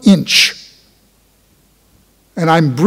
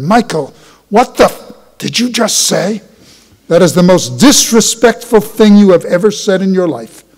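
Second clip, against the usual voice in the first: angry father; 2 semitones higher than usual. Retold or imitated. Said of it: "And he yells again".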